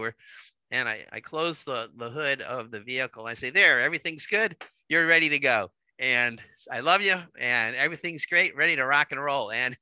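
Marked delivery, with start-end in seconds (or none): 3.5-9.5 louder, upbeat all-is-fixed reassurance; cheery reassurance. Retold or imitated. Husband reassuring his upset wife after fixing the car, loud and cheery. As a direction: beam it out like the hero who fixed it. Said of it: "I was assuring her that everything was going to be just fine".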